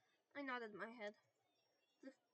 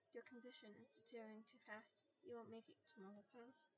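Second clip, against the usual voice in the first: matter of fact; 8 dB quieter than usual. Acted. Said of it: "He was matter of fact".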